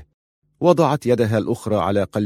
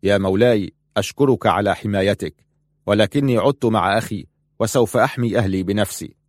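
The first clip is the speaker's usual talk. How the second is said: firm. Acted. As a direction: set the matter firmly, no room to argue. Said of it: "قال في حسم". (بحسم وقوة)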